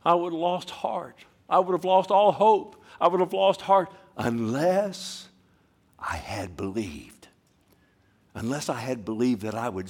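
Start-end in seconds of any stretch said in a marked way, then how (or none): 0.0-7.3 louder, higher quote of David; fervent reading. Acted. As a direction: cry it as David. Voicing King David's despair.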